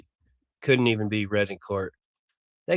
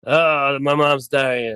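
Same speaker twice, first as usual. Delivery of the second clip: mock plea, a little louder; mocking imitation; 2 semitones higher, 5 dB louder, much slower than usual. Commentator parroting the defendant's plea about his mom, mockingly.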